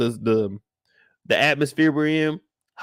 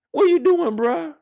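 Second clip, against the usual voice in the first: louder, higher, disbelieving yell; exasperated yell; 10 semitones higher, 4 dB louder than usual. Real, not acted. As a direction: demand an answer, fed up. Scolding Lil Murda in disbelief.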